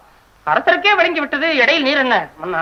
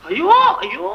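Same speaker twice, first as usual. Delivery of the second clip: wailing; 7 semitones higher, slower than usual. Acted. Poet wailing alone.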